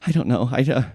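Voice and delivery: high, distressed voice, halting at first; terrified housekeeper. Acted. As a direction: recount the ordeal as a frightened victim. Plays the shaken housekeeper.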